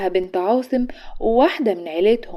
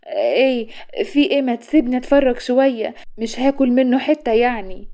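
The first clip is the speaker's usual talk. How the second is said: embarrassed; 3 semitones higher, 4 dB louder than usual. Acted. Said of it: "اتكلمت بإحراج".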